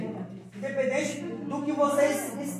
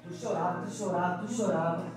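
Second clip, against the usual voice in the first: mother's voice; 5 semitones lower, 5 dB quieter than usual. Retold or imitated. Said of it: "mãe falou assim".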